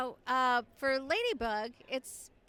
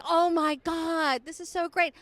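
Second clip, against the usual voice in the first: excited fan; 4 semitones higher, 6 dB louder, slower than usual. Retold or imitated. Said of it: "other ones are like".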